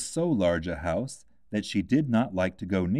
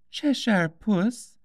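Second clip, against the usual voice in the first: put-on high, slow, small girl's voice; a young girl shyly calling the cat; childlike Alice; timid Alice; 13 semitones higher, 3 dB louder, much slower than usual. A narrator's reading.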